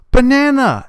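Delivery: hammed-up shout of alarm; mock victim yell. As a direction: yell it like a startled villager. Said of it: "They go".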